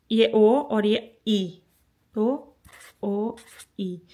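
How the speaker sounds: "ये ओ और ये ई" drawn out very slowly, each vowel held; slow teaching pace; slow vowel demo. Shown as a demonstration. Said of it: "teacher slows to show vowels".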